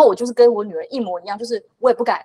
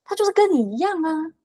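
轻描淡写; 8 semitones higher than usual. Retold or imitated. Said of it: "云淡风轻的说".

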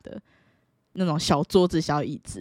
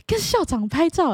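put-on excited kid; 9 semitones higher than usual. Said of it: "我说".

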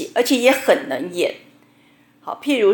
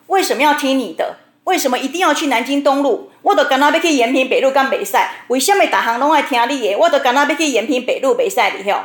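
defiant retort; 4 semitones higher, faster than usual. Retold or imitated. Mother argues back at daughter.

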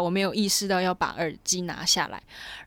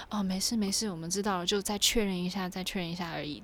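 softer, smoothing things over; quietly calm the frightened passenger down; station worker lightly voiced, gently dismissing worry; reassuring staff; 6 dB quieter than usual.

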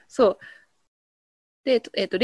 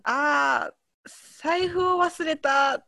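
mock dismay; 3 semitones higher, slower than usual. Shown as a demonstration. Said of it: "例文".

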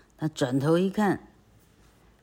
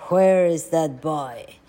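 exasperated; 6 dB louder, slower than usual. Acted. Aunt annoyed searching.

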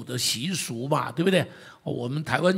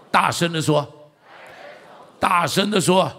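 loud urging; 6 dB louder, slower than usual. Real, not acted.

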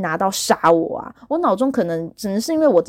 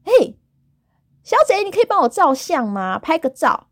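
put-on Taiwanese Mandarin accent; 7 semitones higher than usual. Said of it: "她真的是台湾国语".

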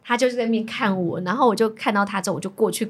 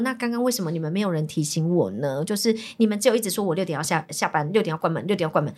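lower, restrained retold objection; reasoned complaint; 5 semitones lower than usual. Customer asking staff why nobody warned her, retold reasonably. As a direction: keep it rational while objecting. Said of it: "我就很理性的跟他讲说".

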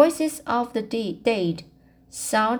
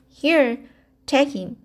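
hasty; 5 semitones higher than usual. Acted. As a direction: push the cat away in a hurry. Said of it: "she said hastily".

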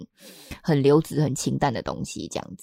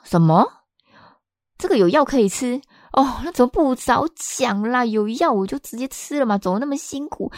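higher, louder mock outrage; what, there was a pill all along?; indignant surprise; 7 semitones higher, 4 dB louder than usual. Patient reacting to the doctor's casual prescription, incredulous.

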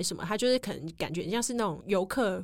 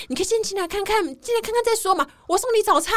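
higher, louder pleading call from behind; calling after them; 12 semitones higher, 6 dB louder than usual. Retold or imitated. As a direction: coax them back, calling out loud. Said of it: "他在后面还一直喊我们". (在后面大声喊着挽留)

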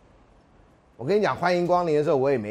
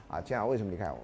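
corrected quote; 6 semitones lower, 9 dB quieter, faster than usual. Retold or imitated. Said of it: "你知道前男友啊".

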